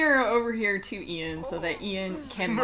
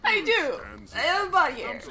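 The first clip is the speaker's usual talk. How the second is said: pumped-up self-talk voice; 6 semitones higher, 8 dB louder than usual. Pretend. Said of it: "He's like".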